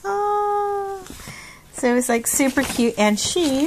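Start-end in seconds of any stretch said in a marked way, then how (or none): 0.1-1.0 high, soft, tender aw; touched aw. Real, not acted. Vlogger melting over a sweet letter from a viewer. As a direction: melt over the gift.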